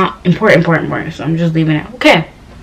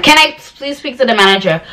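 higher-pitched, insistent retold demand; rude insistence; 4 semitones higher than usual. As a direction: press the clerk, mildly rude. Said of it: "I was being so rude to her".

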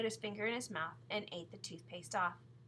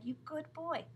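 higher-pitched, pleased praise; praising; 7 semitones higher than usual. A narrator's reading. Mother praising John for emptying his glass, praising. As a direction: coo approval at a child.

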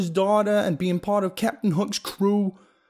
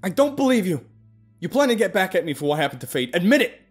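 high, loud paranoid yelling; angry yelling; 10 semitones higher, 7 dB louder than usual. Acted. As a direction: yell the accusation wildly. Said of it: "I yelled at her".

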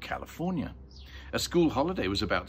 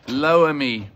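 loud, higher call; raised voice, pitched up; 4 semitones higher, 11 dB louder than usual. Acted. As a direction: call out an instruction. Boy instructing mother over the shaft.

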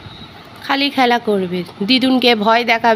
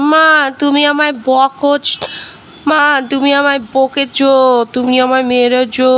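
mock wail, words drawn out; imitated tearful child; 4 dB louder than usual. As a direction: mimic a child's slow, whining complaint. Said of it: "কেঁদে কেঁদে বলছে". (কান্নার সুরে টেনে টেনে নকল)

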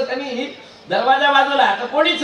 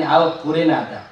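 sleepy mumble; 7 semitones lower than usual. Acted. Half-asleep wife in bed.

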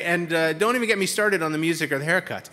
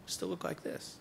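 breathless deadpan whisper; whispered punchline; 13 dB quieter, slower than usual. Acted. Speaker to audience, whispering the running gag. Deadpan refrain, quieter each time.

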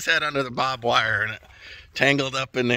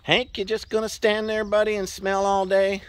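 teasing the horse; 7 semitones higher than usual. Real, not acted.

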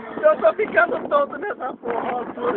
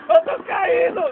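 higher panicked yell; panicked cry; 8 semitones higher, 3 dB louder than usual. Real, not acted. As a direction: cry out that you're falling. Falling sensation on ride. (grito em pânico)

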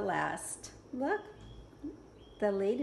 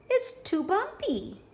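ladybug voice; 8 semitones higher than usual. Acted. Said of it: "cried the lazy ladybug".

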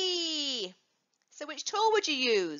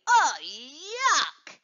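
disgusted; 3 dB louder than usual. Shown as a demonstration.

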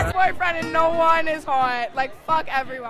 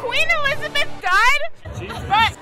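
rowdy party animal; 8 semitones higher, 3 dB louder than usual. Real, not acted. Party rant.

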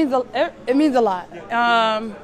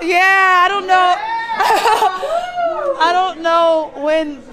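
loud, higher, tearful excitement; overwhelmed with emotion; 5 semitones higher, 5 dB louder, slower than usual. Real, not acted. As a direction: burst out, half laughing and half crying. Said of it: "my emotions are all over the place".

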